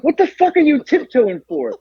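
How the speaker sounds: high-pitched mock disbelief; incredulous complaint, acted out; exasperated retold question. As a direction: imitate a baffled, fed-up friend.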